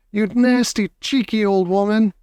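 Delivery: high-pitched outraged scolding; angry shout. A narrator's reading. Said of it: "shouted Mister Jenkins".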